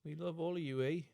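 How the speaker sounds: a hammed-up Canadian farewell; mock Canadian accent. Cohost greets Canadian listeners in a mock Canadian accent. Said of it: "This is probably the worst".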